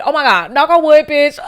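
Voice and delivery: cracking up at her own words; laughing. Real, not acted. Host laughing at her own bad take, laughing loud.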